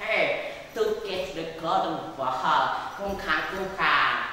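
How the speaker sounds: lightly voiced croaking frog; explaining frog. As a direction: play a frog pleading its case to the king.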